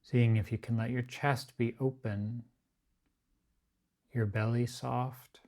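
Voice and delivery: unhurried, evenly pitched body-scan guidance, phrase by phrase; guided meditation. Acted. Teacher guiding a group to relax the body, guided meditation.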